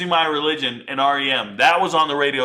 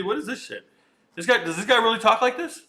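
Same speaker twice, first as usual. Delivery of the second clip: ordinary talk, nothing marked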